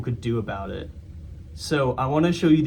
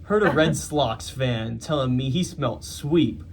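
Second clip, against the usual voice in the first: put-on New York accent; slower than usual. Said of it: "I'm trying to do it in a New York accent".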